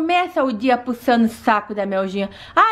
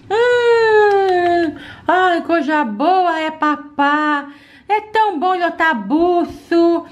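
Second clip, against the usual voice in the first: put-on little girl voice; 2 semitones higher, much slower than usual. Doll child enjoying food.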